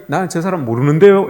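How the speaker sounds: demonstrating a light Busan accent. Shown as a demonstration. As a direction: deny it with a Busan lilt. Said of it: "부산 사람이".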